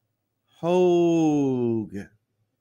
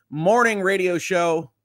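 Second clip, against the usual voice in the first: radio host; 5 semitones higher, 3 dB louder, slower than usual. Shown as a demonstration. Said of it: "my morning radio voice".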